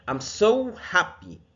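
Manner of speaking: slow, high, bright happy line. Shown as a demonstration. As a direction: sound truly happy. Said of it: "يعني أنا مبسوط جدًا". (بنبرة سعيدة)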